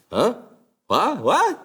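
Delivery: stunned double take; shocked kids. Acted. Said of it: "kids shocked".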